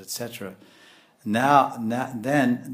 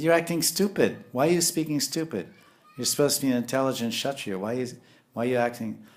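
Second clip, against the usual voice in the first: mock scolding; 3 semitones higher than usual. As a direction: tell him off, half playful. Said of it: "giving him the sauce".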